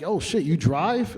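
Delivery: slow, amazed question; drawn-out disbelief; surprised. Retold or imitated. Surprised Janet drives.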